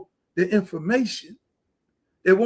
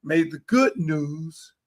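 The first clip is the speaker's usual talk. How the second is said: quoting Walter Cronkite; 4 semitones lower, 5 dB quieter, much slower than usual. Retold or imitated. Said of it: "in the words of Walter Cronkite".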